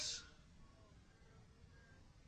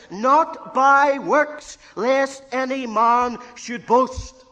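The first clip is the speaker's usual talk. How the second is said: preaching at full force; 6 semitones higher, 11 dB louder, much slower than usual. Real, not acted. Preacher quoting scripture.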